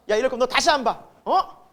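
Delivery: mild mock outburst at a friend; performed huffy ultimatum; acted anger. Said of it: "너무 화가 나가지고".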